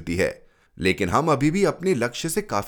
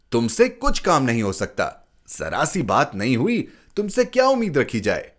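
irritated scolding; 3 semitones higher than usual. Acted. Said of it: "सुनकर मैं झल्ला आया".

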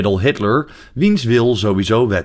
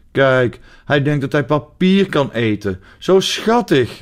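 delighted daughter; 4 semitones higher, slower than usual. Retold or imitated. Daughter gushing over the puppy eating paper, delighted. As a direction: voice rising higher, cooing, stretching out zo schattig slowly. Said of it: "riep mijn dochter".

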